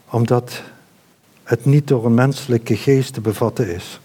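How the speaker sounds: low, unhurried prayer with long pauses; earnest prayer. Real, not acted. Preacher asks Father to help them understand, prayerful.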